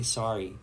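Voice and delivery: "sorry" as "SAH-ree"; own pronunciation. Shown as a demonstration. Streamer shows how they say it, "sorry" as "sah-ree". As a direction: say "sorry" with an open ah. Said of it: "I say sorry".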